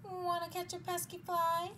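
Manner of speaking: high-pitched crowing talk; rooster voice. Acted. Rooster inviting spider to catch fly, high crowing voice. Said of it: "crowed the rooster".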